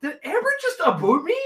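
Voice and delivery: high-pitched mock Canadian disbelief; incredulous squeaky Canadian on "aboot". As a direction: ask it high, in exaggerated Canadian. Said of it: "sound so Canadian".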